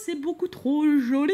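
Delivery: a light put-on silly gushing voice. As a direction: gush in a mildly goofy voice. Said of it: "je fais ma voix de con". (petite voix niaise à peine forcée)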